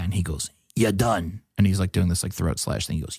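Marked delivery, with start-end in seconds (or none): 0.8-1.4 lightly imitated Michigan accent. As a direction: pronounce the verdict in a mock Michigan accent. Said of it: "a very classic Michigan accent".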